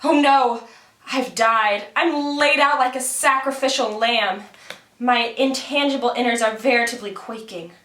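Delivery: hammed-up puppet wail of death; Karagos puppet voice, second take. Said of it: "I'm gonna try it again".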